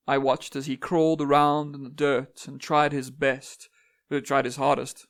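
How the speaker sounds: measured, solemn recitation with deliberate pauses; stately dramatic verse reading; poem reading. Acted. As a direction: recite it as an otherworldly speaker addressing humans. Reads own poem aloud.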